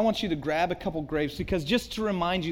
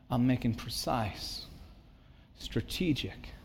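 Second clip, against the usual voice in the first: gentle fatherly voice; 4 dB quieter than usual. Acted. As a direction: speak as a caring father explaining the cuts. Voices God the Father speaking.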